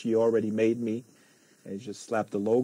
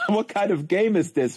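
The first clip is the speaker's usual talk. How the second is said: puzzled newbie; 7 semitones higher, 4 dB louder than usual. Retold or imitated. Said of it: "I thought".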